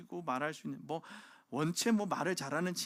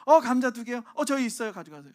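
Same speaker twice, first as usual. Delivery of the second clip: neighbor mom replying; 8 semitones higher, 12 dB louder than usual. Retold or imitated. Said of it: "엄마들끼리 이렇게 얘기하는 거".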